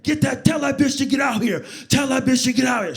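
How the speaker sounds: loud, high angry shout; full-voiced, outraged holler; shouting across traffic. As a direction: yell it so it carries over traffic. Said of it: "I can hear her over three lanes of traffic".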